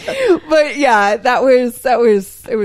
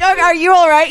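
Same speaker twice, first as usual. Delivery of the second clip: concerned check; 7 semitones higher, 6 dB louder, faster than usual. Retold or imitated. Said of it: "I'm like".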